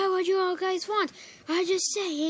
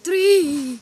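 shout; 9 dB louder than usual. Acted. Character yelling in game.

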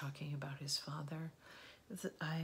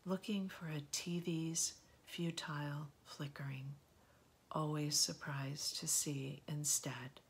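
measured poetry reading, pausing between phrases; poem reading. Acted. Host reading a Philip Schultz poem to listeners, measured recitation. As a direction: read the poem line by line, letting each phrase settle.

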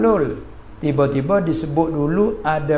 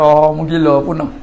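mock scolding retort; 7 dB louder than usual. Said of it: "Pandai kata".

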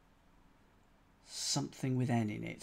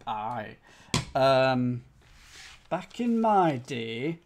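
mock Lancashire; 3 semitones lower, 5 dB louder, much slower than usual. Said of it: "I can't do Lancashire".

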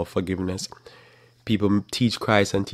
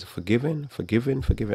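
high, sing-song mock forgiveness; mocking Pope; 4 semitones higher, 3 dB quieter than usual. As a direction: parody a soft papal absolution. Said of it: "the Pope says".

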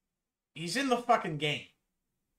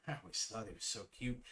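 mocking repeat; 7 semitones lower, 12 dB quieter, much faster than usual. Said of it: "why'd he say it like that?".

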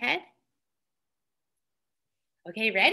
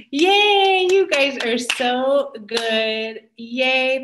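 cheering praise; 7 dB louder, much slower than usual. Real, not acted. Praising children.

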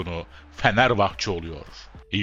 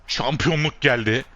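the repeat higher and louder; excited cheer; 5 semitones higher, 3 dB louder than usual. Real, not acted. Player celebrating winning the title, louder excited repeat. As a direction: lift the second one into a cheer.

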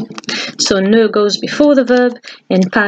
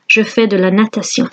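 quick French repeat; faster than usual. Shown as a demonstration.

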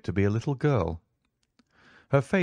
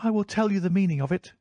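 proud lady; 11 semitones higher, faster than usual. A narrator's reading. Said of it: "cried the lady".

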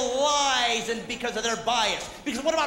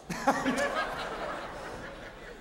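breathy laugh; 9 semitones higher, 7 dB quieter than usual. Acted. Sound effect after grandma joke.

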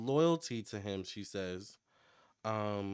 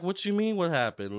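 much higher and louder startled question; imitating a shocked reaction, higher and louder; mock surprise; 8 semitones higher, 6 dB louder than usual. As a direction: react as if you can't believe it. Acting out her own shocked reply.

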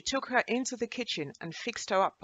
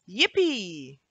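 excited scream; 6 dB louder than usual. Acted. Little girl cheering loudly at the biscuit's magic. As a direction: shout for joy at the treats. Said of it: "Anna screamed".

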